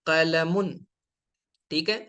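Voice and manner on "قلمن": قلمن said carefully, with the nunation ending -un clearly sounded; clear pronunciation demo. Shown as a demonstration. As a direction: spell out قلمن with the final -un tanween. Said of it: "پین کو کہتے ہیں قلمن". (قلمن کا واضح تلفظ، آخر میں تنوین کے ساتھ)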